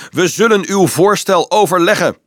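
high, loud, punched shout. A narrator's reading. Dolf replying to officer above, shouting up. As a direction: shout it syllable by syllable to carry upward. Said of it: "schreeuwde Dolf omhoog".

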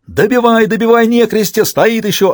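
high, urgent battle yell; frantic yelling. A narrator's reading. Soldier urging comrades on while reloading, frantic yelling. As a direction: scream for them to finish it off. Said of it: "орал Пономарёв".

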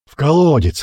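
first cry of the mob, shouting; crowd shout. Acted. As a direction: call out from the crowd. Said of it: "раздались крики со всех сторон".

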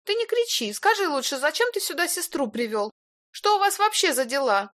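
very high, sharp woman's demand; shrill demand. A narrator's reading. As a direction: press him angrily. Илона наседает. (визгливо и требовательно)

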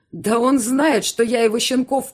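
furious rant. Acted. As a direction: rage on at her. Uncle ranting furiously.

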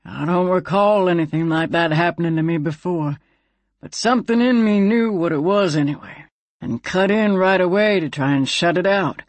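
lightly voiced folksy gun character; a hint of a put-on character voice; Slim, troubled talking gun. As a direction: recount it in a character voice. Slim recounts his blackout to Bess.

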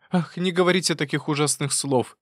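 high, pleading cry; pleading interruption. Acted. Wife interrupting husband, high and pleading. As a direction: cut him off, begging. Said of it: "перебила его".

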